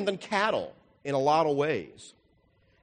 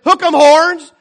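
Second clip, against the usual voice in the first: much higher, loud cheer-style call; shepherd's call; 13 semitones higher, 17 dB louder, slower than usual. Retold or imitated. Second shepherd summoning his sheep, loud high cheer. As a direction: holler it out to the sheep like a fan chant.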